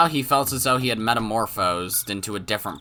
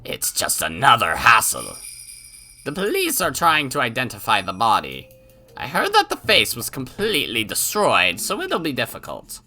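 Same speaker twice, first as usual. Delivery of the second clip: put-on old man voice; 2 semitones higher, 4 dB louder than usual. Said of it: "my frickin' old man voice".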